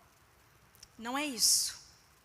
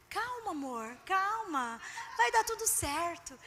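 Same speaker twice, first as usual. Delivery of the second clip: 1 soothing wife; 2 semitones higher, 4 dB quieter, slower than usual. Retold or imitated. Comforting shaken husband.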